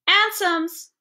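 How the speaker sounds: put-on high, delighted child's shout; a boy thrilled at spotting cabs; exultant. A narrator's reading. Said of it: "a note of culminating exultation".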